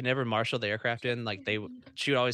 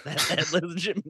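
high, laughing retelling through giggles; laughing quote; 7 semitones higher, 3 dB louder than usual. Retold or imitated. To the hosts about the crew chief, laughing high. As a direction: squeal it out while cracking up.

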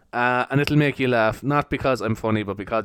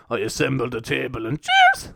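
macho big man. Retold or imitated. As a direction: puff yourself up like a hard man. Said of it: "trying to act like a big man".

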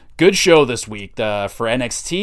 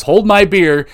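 mock tough boast; 6 semitones higher, 7 dB louder than usual. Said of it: "and then Mister Stone says".

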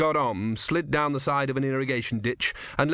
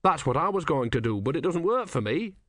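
put-on high, earnest young novice; higher, innocent young monk voice; young Brutha voice; 4 semitones higher than usual. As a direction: ask it wide-eyed and high. Brutha speaks.

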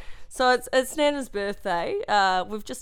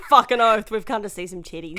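mock crude shout; 5 dB louder than usual. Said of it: "And you're like".

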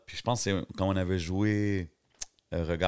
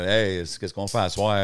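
mock Quebec accent; 5 dB louder than usual. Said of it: "Il y a jamais eu d'accent comme ça".

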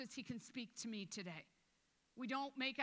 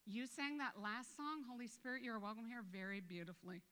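mock picky God. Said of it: "he didn't get up in the morning and go".

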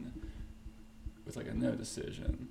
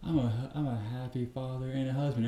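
mock outraged protest; 2 semitones higher, 5 dB louder than usual. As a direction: play the wronged family man shouting back. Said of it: "And D C's like".

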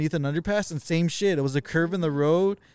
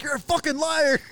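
mock outrage; 11 semitones higher than usual. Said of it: "And Jackie's like".

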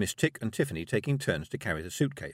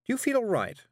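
higher, brisk witch voice; a busy, slightly nervous witch; Miss Tick. A narrator's reading. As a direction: witch talking a girl into a walk. Miss Tick's voice.

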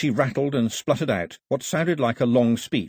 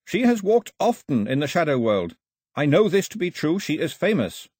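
put-on higher, earnest young translator voice; Carley's voice; 6 semitones higher, 4 dB louder than usual. A narrator's reading. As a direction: voice Carley relaying the old woman's words. Carley speaking.

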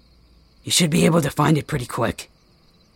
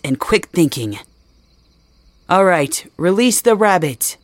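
announcer voice. Acted. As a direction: announce it to the crowd. Announces the challenge like a host.

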